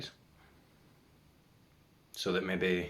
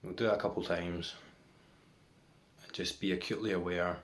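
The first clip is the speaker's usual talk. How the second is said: guided meditation. Real, not acted. Guiding viewers to watch for the next thought, meditation voice. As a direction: lead them into stillness, leaving long silences between phrases.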